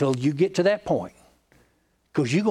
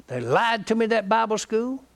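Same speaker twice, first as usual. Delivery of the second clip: higher-pitched mock complaint; retold indignation; 5 semitones higher than usual. Pastor quoting his disillusioned friend on the phone, indignant. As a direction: retell a friend's aggrieved grievance. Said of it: "Another thing I'm mad about".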